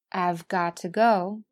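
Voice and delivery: "I've got to go" with have shrunk to 've, crisp t in "got to"; slow "I've", then a full "got to"; careful contracted form. Shown as a demonstration. Teacher lists the forms for students, careful contraction. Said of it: "还可以说成".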